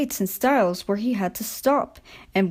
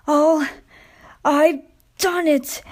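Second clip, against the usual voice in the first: higher and louder, slow triumph; triumphant relief; 7 semitones higher, 5 dB louder, slower than usual. A narrator's reading. Worn-out Skarloey arriving at last, loud relieved triumph. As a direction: gasp out that you made it. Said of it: "he sighed thankfully".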